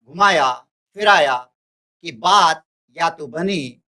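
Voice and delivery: measured verse reading, pausing between short phrases; poem recitation. Acted. Teacher reads the poem aloud to students, measured recitation.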